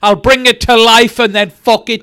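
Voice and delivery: hammed-up abusive boss rant; mock abusive rant. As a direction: spit out the insults. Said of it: "I want something like".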